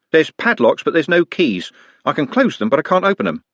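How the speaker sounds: Trev's voice. A narrator's reading. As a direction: raise the voice for Trev. Trev voiced, higher.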